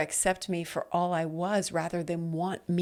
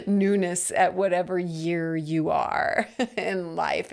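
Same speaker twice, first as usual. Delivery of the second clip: laughing through "Newness", slower. Real, not acted. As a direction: chuckle while saying "Newness at whatever year". Laughs through the repeated phrase.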